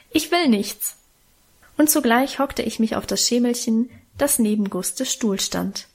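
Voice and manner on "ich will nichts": higher-pitched plaintive protest, falling away; acted tearful refusal. A narrator's reading. Child refuses sister's food once more, plaintive and higher. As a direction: insist like an upset child, lightly acted. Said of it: "schluchzte ich los".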